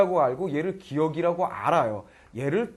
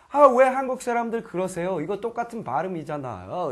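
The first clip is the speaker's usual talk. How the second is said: protesting; 2 semitones higher than usual. Acted. Foreign learner arguing with Korean teacher, mock protest. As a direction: push back in complaint, then ease down. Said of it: "이렇게 따지는 거예요".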